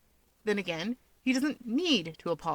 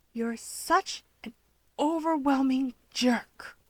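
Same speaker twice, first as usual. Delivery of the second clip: unfriendly hero; 6 semitones higher, slower than usual. A narrator's reading. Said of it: "his gaze dark and unfriendly".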